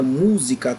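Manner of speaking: música with "mú" stressed; stress on first syllable. Shown as a demonstration. Teacher offers another example, stress on "mú" of música. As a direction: lean on the "mú" of música. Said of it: "é a sílaba mais forte".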